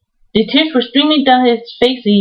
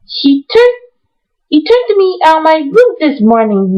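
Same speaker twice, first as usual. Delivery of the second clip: high, excited complaint; excited protest; 5 semitones higher than usual. Acted. Mary protesting to the nurse, excited and high. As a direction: stamp it out indignantly. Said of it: "stamping her foot with excitement".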